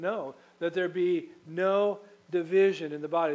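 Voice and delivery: "no division" hit loud and firm; forceful emphasis on "no division"; stress on no division. Shown as a demonstration. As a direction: punch "no division" hard. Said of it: "not that there be just a little division".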